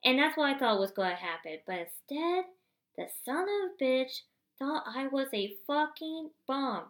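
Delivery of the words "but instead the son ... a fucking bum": indignant. Real, not acted. Building to outrage.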